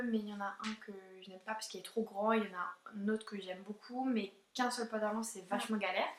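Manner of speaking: quiet aside. Real, not acted. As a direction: drop the voice to confide. Quiet aside about pants.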